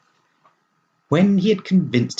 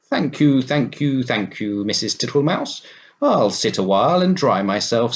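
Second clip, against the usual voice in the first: fat-voiced toad; 3 semitones higher than usual. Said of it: "coughing in a fat voice".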